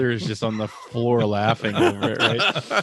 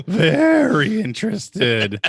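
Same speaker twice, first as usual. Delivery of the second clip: sarcastic; 10 semitones higher, 6 dB louder, much slower than usual. Retold or imitated. Mocking the nephew's reply.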